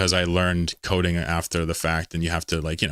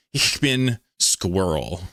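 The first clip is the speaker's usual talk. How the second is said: mock German accent; much slower than usual. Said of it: "I can't say squirrel as a German".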